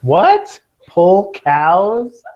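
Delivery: sharp high startled what; real disbelief, jumping way up in pitch; surprised. Real, not acted. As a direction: caught off guard by a silly answer. Student says silos hold cows.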